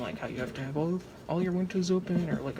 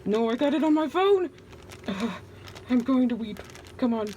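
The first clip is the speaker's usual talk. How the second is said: higher, louder wail of dismay; yelling about powder on the phone; frustrated yell; 8 semitones higher, 4 dB louder than usual. Real, not acted. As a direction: cry out as it lands on the phone. Soap powder spilled on her phone.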